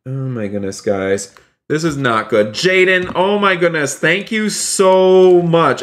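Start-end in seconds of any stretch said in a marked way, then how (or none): 2.5-5.8 high-pitched, amazed gratitude; excited thanks. Real, not acted. Streamer interrupting the crash drama to thank Jaden, excited. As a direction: burst into high thanks, stretching the last phrase.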